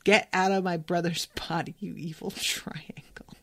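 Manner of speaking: whispered through a laugh, trailing off; a playful hushed quote that fades. Retold or imitated. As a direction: breathe the last words with a giggle. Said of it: "I'm gonna yell that at him".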